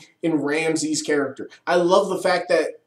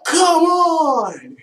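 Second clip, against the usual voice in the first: much higher, loud shout; yelled summons; 12 semitones higher, 4 dB louder than usual. Retold or imitated. Reviewer shows how to call a Robo Dinosaur, shout. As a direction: bellow it like summoning a robot. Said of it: "You just yell".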